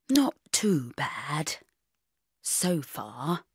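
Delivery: slow, hushed, babyish mock-sad voice; a lightly mocking wounded-bunny whimper; flopsy bunny voice. Ex on the phone to his new girlfriend, flopsy bunny voice. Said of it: "in a flopsy bunny voice".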